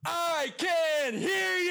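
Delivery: high, slow comedy-club yell; pretending not to hear. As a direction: bellow it like a comic asking the crowd to speak up. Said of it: "I'm gonna do my impression of a guy that, uh, can't hear things very well".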